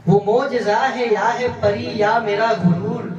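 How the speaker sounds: measured mushaira recitation; poetry recital. Acted. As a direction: recite each line of verse to an audience. Recites ghazal couplets to audience.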